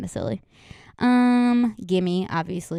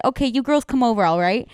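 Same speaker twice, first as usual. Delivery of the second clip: put-on old lady voice; 2 semitones higher than usual. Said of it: "You just sounded like Tusha".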